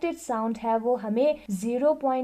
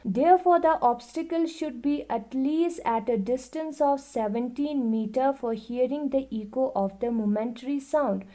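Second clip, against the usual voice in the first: reading the book aloud, very slowly and evenly; slow classroom read-aloud; slow textbook reading; much slower than usual. Acted. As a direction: dictate it word by word to the class. Reads textbook line aloud.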